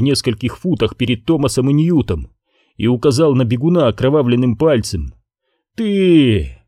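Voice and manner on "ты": sharp accusing cry, higher; shouting. Acted. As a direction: yell it out. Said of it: "крикнул он".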